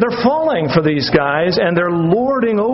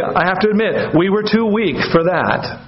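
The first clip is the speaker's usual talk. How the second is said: sarcastic; 2 semitones higher than usual. Retold or imitated. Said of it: "He says sarcastically".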